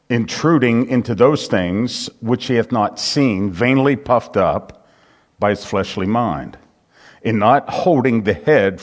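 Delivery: measured, solemn Bible reading; scripture reading. Acted. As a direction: read the verses with weight, steadily. Reads Colossians aloud.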